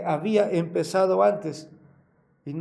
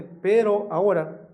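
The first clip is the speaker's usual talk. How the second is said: "pero ahora" louder, weight on pero; stressed pero ahora; 2 semitones higher, 6 dB louder than usual. Real, not acted. Preacher summing up, stressing "pero ahora" louder. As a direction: repeat the contrast with force. Repeats the contrast phrase.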